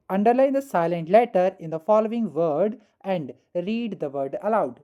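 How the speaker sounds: very slow, word-by-word reading of the instruction; slow dictation. Shown as a demonstration. Teacher reading the exercise instruction slowly to students. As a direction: spell it out slowly for the class.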